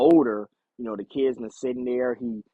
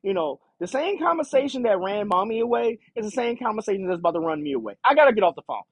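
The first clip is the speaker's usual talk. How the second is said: mostly higher, bratty daughter lecturing daddy; a fair hint of the spoiled kid complaining; whiny teen daughter; 4 semitones higher than usual. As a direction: daughter brushing off her father on the phone, bratty and high. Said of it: "that's how she's talking".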